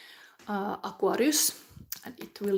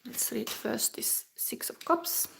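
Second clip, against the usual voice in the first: whisper; 3 semitones higher, 4 dB quieter than usual. Real, not acted.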